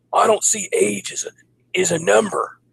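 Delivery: high, slow mocking voice; mocking commenter. Mocking an online commenter's cliché, high slow silly voice.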